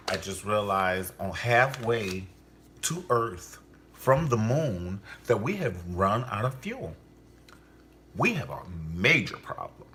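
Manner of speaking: mock space distress call; mock astronaut. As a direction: ham up a stranded astronaut calling Houston.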